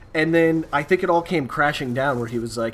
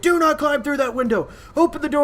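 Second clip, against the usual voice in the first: high, raised stern order; cop commanding; 11 semitones higher, 3 dB louder than usual. Retold or imitated. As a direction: forbid it sharply. Cop yelling.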